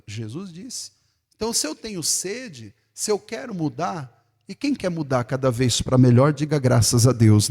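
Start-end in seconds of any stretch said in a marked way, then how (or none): 4.5-7.5 loud rousing preacher call. Real, not acted. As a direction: lift the whole room to answer. Preacher calls to congregation. (chamado forte do pregador à igreja)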